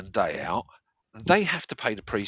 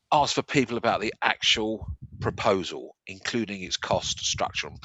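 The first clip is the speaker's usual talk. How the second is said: speaking without false teeth; toothless; 3 semitones lower than usual. Real, not acted. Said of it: "I haven't got my teeth in".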